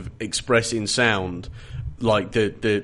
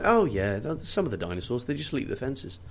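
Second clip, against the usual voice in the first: offhand, tossed-away remark, trailing softer; very casual; 5 dB quieter than usual. Acted. Park man waving away fence-jumping dinosaurs, very casual. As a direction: shrug it off lightly. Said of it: "very casual about that".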